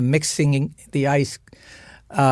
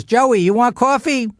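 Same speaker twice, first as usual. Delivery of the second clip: mock sweet mother; 8 semitones higher, 3 dB louder than usual.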